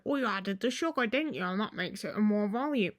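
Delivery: clumsy imitation of a friend's southern accent; bad southern accent. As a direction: badly attempt a southern accent. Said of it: "I can't do a southern accent".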